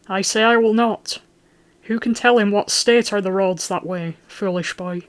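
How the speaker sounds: the lord refusing Simon's route, loud and stubborn; loud refusal. Acted. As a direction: put your foot down hard. Obstinate Falk overrules Simon.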